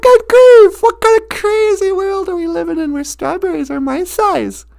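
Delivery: put-on an exasperated kid complaining; mock astonishment. Holly complains about the giant strawberry in mock astonishment. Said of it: "She's like".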